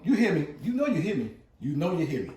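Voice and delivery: loud, high hype-man call; hype shout. Real, not acted. Calling out to his viewers, loud hype. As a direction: pump up the viewers.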